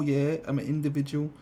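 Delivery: mock swagger; mocking meme voice. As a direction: parrot a smug nineties meme. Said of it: "It was like".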